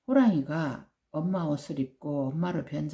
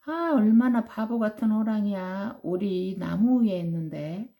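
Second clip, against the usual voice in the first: mocking tease; 3 semitones higher than usual. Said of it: "웃음을 참을 수가 없었어".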